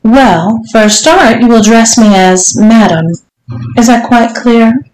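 lightly voiced strict madam, lifting at the question; commanding mistress. Mistress instructing her servant, mildly imperious. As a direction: lay down the rules as a demanding mistress. Voices the story's Missus Johnson.

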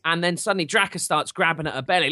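ordinary talk, nothing marked

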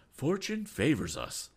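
high, slow, drawn-out exclamation; captain's triumphant call; exultant cry. A narrator's reading. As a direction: cry out at a stroke of luck. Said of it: "cried Captain Weston".

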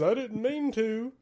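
high mock-meek echo of the excuse; mocking quote. Billy mimicking James's excuse to the coach, high and mocking. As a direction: parrot James's whiny excuse. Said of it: "James says".

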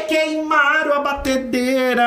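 high, slow, exaggerated wail; theatrical high-pitched mock despair; mock lament. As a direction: ham up the tragedy of the mixer. Mocking whine over burnt mixer.

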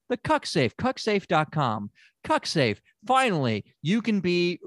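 pitchman's sponsor read, slowing on key phrases; mock ad read. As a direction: sell it like a commercial plug.

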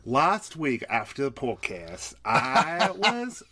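slow put-on British storytelling; British accent. Podcast host starting a skit in a British accent. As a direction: begin a tale in mock British. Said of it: "my British accent".

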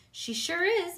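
high, loud cheering; proud grandpa; hearty grandpa. Acted. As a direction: grandpa bursting with pride.

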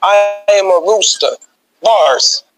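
low, slow battle-rapper delivery; impression of another battle rapper. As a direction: drop the pitch and space out the words like a battle rapper. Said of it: "In my battle-rapper voice".

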